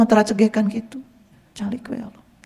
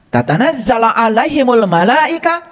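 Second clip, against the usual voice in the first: slow Quranic recitation. Acted. Reciting next verse slowly.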